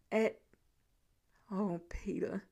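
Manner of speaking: breathy whispered sigh of pity. A narrator's reading. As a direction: let it escape as a heartbroken whisper. Narrator's moved aside.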